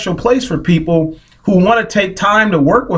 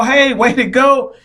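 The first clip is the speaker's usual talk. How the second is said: cheering; 4 semitones higher, slower than usual. Retold or imitated. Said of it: "They see you cheering".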